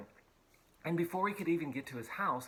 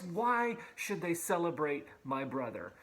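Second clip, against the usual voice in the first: put-on indignant older brother, raised pitch; furious older son; 3 semitones higher than usual. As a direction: vent like the jealous brother. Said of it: "the older son was furious".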